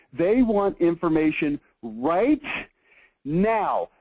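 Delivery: "They want information right now" drawn out very slowly; slow emphatic repeat. Shown as a demonstration. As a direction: spell it out slowly so it sticks. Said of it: "I want you to look at this point".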